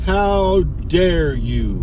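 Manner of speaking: very slow, mock-offended, HOW leaned on; milk the fake offence word by word; hammed-up outrage. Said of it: "I am angry".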